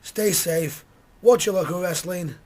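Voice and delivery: hoarse, worn-out voice; groggy voice. Real, not acted. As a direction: speak with a rough, tired throat. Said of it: "with me groggy voice".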